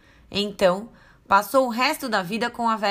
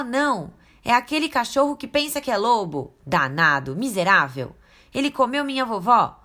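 put-on higher, louder cheerful then alarmed girl; excited little girl; 4 semitones higher, 3 dB louder than usual. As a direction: burst in, then gasp in horror. Girl greets then panics.

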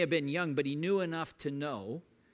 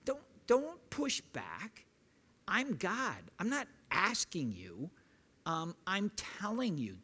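a firm, commanding God insisting; a no-nonsense God laying down the law; stern God refusing excuses; God getting in his face. Retold or imitated. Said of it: "picture him getting in his face".

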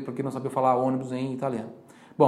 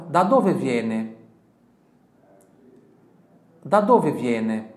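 very slow, loud, stretched; slow model question; 6 dB louder, much slower than usual. Shown as a demonstration. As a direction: drill the question slowly. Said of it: "Repita em voz alta". (pergunta lenta e alta para repetir)

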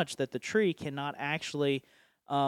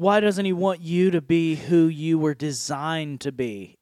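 louder challenging question; lightly voiced enemy; 6 dB louder than usual. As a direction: press the doubt as the enemy, louder. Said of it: "the enemy's going".

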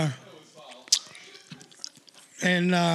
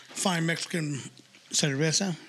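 put-on Spanish-accented cerveza; 2 semitones lower, 4 dB quieter, slower than usual. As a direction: say cerveza like a native Spanish speaker. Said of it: "you actually sounded Latino".

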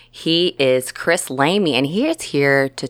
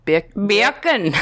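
high, hammed-up Australian accent; 8 semitones higher than usual. Shown as a demonstration. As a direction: squash it into exaggerated Australian. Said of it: "say beer can in Australian accent".

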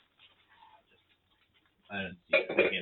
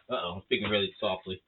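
low-pitched, talking through cupcake; mouth full; 5 semitones lower than usual. Real, not acted. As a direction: speak with your mouth stuffed. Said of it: "you got a mouthful of cupcake".

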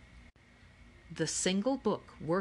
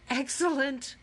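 high, gleeful exclamation; tickled, pitched well up, without a full laugh; giggly delight; 8 semitones higher, 4 dB louder than usual. A narrator's reading. Akemi recognising the box-top joke, high giggly delight. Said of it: "Akemi giggled".

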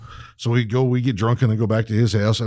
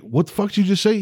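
high, baffled demand; incredulous; 10 semitones higher than usual. Retold or imitated. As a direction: ask like you can't believe it. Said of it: "if you were like".

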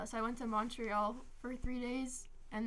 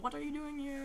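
lightly imitated British man, higher, amused; mock British accent; 4 semitones higher than usual. Retelling a British dude questioning dad, light mock British accent. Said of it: "it was some British dude".

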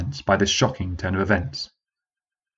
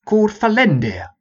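a high, formal commanding officer; rally the troops like an old sergeant; sergeant's voice; 11 semitones higher, 3 dB louder than usual. Acted.

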